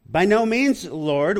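loud, high protest, "By no means"; emphatic refusal. Retold or imitated. Peter refusing the Lord's command, loud and high. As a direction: throw the refusal up at the Lord.

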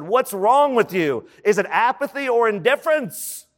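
mildly exasperated coach, pitch climbing; mock a coach's exasperated questioning; frustrated coach. Coach to struggling team at halftime, frustrated. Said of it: "he got frustrated".

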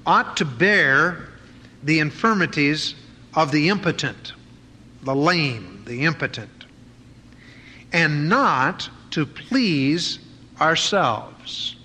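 slow, weighty Bible reading; measured pulpit reading; scripture reading. Acted. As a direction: read each phrase slowly and deliberately. Reads scripture slowly.

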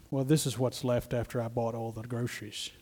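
soft mock-innocent excuse; a hint of a shifty Judas; preacher voicing Judas's excuse. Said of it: "that's how he was thinking".

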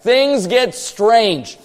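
things get strange, each word stretched slowly; slow, drawn out. Shown as a demonstration. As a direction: draw out "strange" for effect. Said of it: "we'll say it like that".

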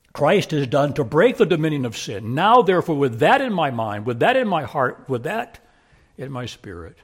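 loud, ringing declaration; forceful preaching. Acted. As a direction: proclaim it full voice to the hall.

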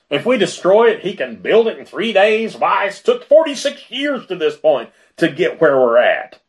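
high-pitched, indignant disbelief; incredulous scoffing. Acted. Jewish leaders scoffing at Jesus' rebuilding claim, incredulous.

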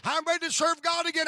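high, loud, rising preacher's cry; preaching fire. Retold or imitated. Daddy preaching his victory to his son. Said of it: "He said".

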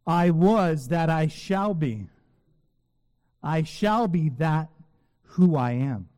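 a measured, slow litany of the divine name; slow deliberate reading. Shown as a demonstration. Pastor reading the name's translations to the congregation, slow and deliberate. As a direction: read each version slowly, weighing every word. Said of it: "I'm gonna actually read them".

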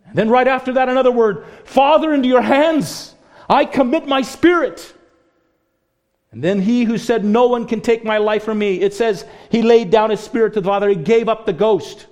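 high, loud, impassioned preaching; preaching at full force. Real, not acted. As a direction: drive the sermon to its climax. Preaching climax continues.

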